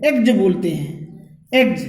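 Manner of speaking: एग्ज ending in a voiced "gj"; सही उच्चारण. Shown as a demonstration. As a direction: say एग्ज with a J sound at the end. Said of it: "सही उच्चारण ये है". (एग्ज के अंत में "ज" की आवाज़)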